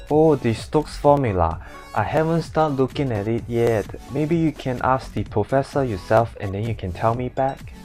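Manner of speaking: flat Hong Kong English, level tone; Hong Kong accent. Acted. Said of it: "all these words in Hong Kong accents".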